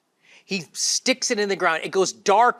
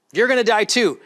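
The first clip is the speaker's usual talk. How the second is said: louder, higher, punching it home; loud repeat; 4 semitones higher, 6 dB louder than usual. Acted. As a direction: hammer the repeat out to the crowd. Repeats line, then loud.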